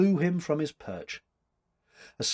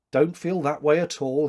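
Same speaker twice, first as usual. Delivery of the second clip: cheerful encouragement; 4 dB louder than usual. Acted. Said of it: "he encouraged her with resolved cheerfulness".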